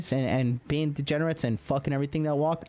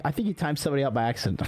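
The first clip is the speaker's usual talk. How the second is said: fast, giggling through the words; amused, quick laughing apology; laughing while talking; much faster than usual. Real, not acted. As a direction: laugh as you own the mistake. Accidentally timed out a chatter.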